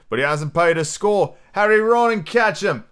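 loud, rising pirate order; crying out. Acted. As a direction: call out urgently to the crew. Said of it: "cried Silver".

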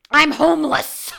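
high, slow mock despair; dramatic panic. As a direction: wail it like disaster struck. Mock catastrophizing thought.

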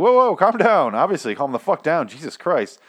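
high, urgent "whoa, calm down"; calming someone down. Retold or imitated. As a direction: rush to stop her shooting. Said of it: "and he's like".

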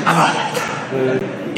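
cradle the new Bible with joy; giddy new believer. Retold or imitated. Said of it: "you're like".

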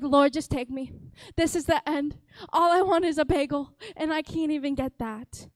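theatrical cry to heaven; mock despairing prayer. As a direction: beg to be taken, over-dramatic. Mock prayer of despair over bagel.

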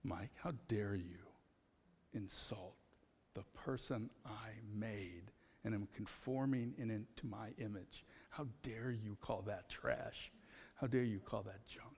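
hushed, measured rebuke with pauses; softly voiced divine reproach; the Lord. The Lord correcting a man who insulted himself, quiet rebuke. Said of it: "Lord come to me and said".

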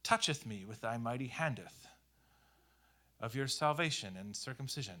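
lightly hammed-up archaic prayer; mock pious jumble of church words; mock King James prayer. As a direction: parody churchy buzzword prayer. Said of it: "it was like".

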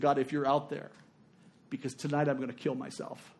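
understated despair, dropping away; despairing prayer. Retold or imitated. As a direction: quote her last prayer gravely. Retelling her prayer of despair.

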